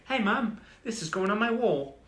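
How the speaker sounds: mock British accent, high and loud; horrible British accent. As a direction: ham up a British teen showing her mum. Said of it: "That was a horrible accent".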